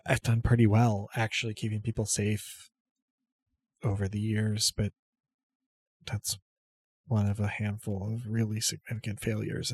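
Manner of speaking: quiet private confession; low voice, just between the two of you; pitched low. Acted. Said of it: "this is all pitched pretty low".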